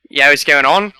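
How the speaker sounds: casual Australian greeting; Australian accent. Acted. Podcast guest showing how he fooled the Aussies, Australian accent. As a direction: greet them as an Aussie would. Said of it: "I can do a crazy Australian accent".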